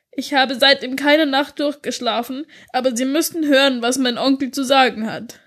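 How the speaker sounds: put-on a girl pleading through tears, understated; lightly voiced crying girl; tearful girl. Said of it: "fing an zu weinen".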